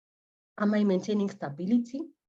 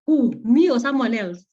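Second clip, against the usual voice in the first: mock disbelief; 2 semitones higher, 7 dB louder than usual. Acting her stunned reaction to son.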